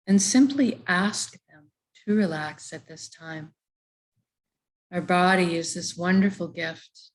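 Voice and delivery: calm body-scan voice with long pauses; guided meditation. Real, not acted. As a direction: lead them body part by body part into relaxation. Leads a body relaxation meditation.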